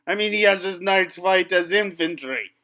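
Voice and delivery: loud, outraged French knight; indignant rant. Acted. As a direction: rant about lost honour. French knight rants against longbows.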